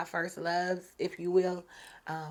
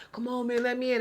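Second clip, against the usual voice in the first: mildly mock pleading, pitched up; retold tearful plea; 5 semitones higher, faster than usual. Drunk ex outside begs to enter, light mock pleading. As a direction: imitate a crying man begging, lightly. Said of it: "crying and being like".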